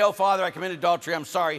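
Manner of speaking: quick, lightly acted confession; acted apologetic penitent. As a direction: blurt out a sorry confession. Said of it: "he should be very gentle with you".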